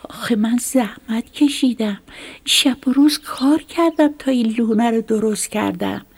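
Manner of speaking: rising upset, pleading with the snake. Acted. Little mouse protesting to the snake over its nest, upset pleading. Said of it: "موش با ناراحتی گفت".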